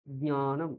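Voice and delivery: জ্ঞানম with a nasal ny after the first consonant; careful nya-nam ending in জ্ঞানম; Sanskrit pronunciation. Shown as a demonstration. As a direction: let the ny be heard in জ্ঞানম. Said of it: "ঞকার আসবে".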